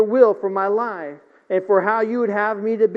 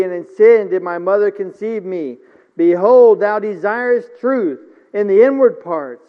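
louder, ringing psalm reading with punched Beholds; preaching scripture; 4 dB louder than usual. Acted. Preacher reading the psalm to the church, full-force preaching. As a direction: proclaim it to the congregation.

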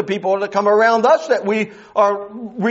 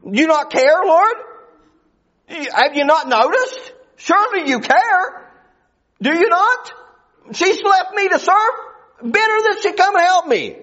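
higher, pleading complaint to the Lord; Martha pleading; 5 semitones higher than usual. Retold or imitated. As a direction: voice Martha's indignant plea, a touch higher. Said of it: "she goes to the Lord with a credible argument".

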